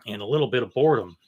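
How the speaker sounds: quick whispered aside. Acted. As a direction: whisper it as a dry joke. Dry joke about being bored.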